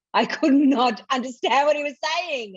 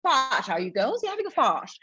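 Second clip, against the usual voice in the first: imitating Gareth teasing; 3 semitones higher than usual. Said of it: "He says".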